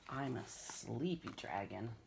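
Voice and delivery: sleepy. Acted. Drowsy dragon.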